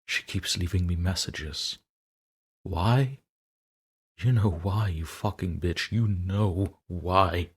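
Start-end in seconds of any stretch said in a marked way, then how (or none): 2.6-7.5 furious outburst. Acted. Diarist lashing out at haunting girl.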